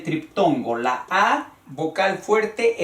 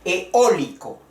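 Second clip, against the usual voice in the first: Eólico with a strong raised Ó, then falling; stress on the O. Shown as a demonstration. Teacher makes the accent audible, stressing the O in Eólico. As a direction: hit the O in Eólico. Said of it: "en el sonido de la voz que se escucha el acento".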